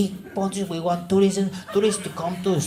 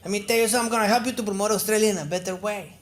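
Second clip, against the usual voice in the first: lightly voiced, higher-pitched Mexican advisor; a touch of salesman-like announcing; Mexican tourism advisor; 4 semitones higher than usual. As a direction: pitch it up as a self-appointed advisor introducing himself. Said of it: "Imagine a Mexican helping Australians".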